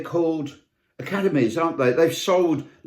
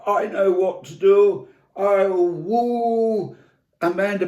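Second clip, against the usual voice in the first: a lightly hammed-up cocky Brian; bossy Brian; 5 semitones higher than usual. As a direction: play the pushy Englishman hogging the road. Brian voiced plotting, road hog.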